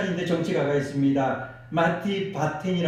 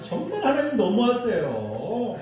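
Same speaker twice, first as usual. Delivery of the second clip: pitched-up complaining prayer; mock grumbling; 5 semitones higher than usual. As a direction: moan to God about the unfairness. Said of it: "넋두리를 하면서".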